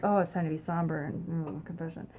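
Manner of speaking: half-hearted mock solemnity; mock somber. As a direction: droop into a dutiful, gloomy sigh. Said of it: "you kind of feel like".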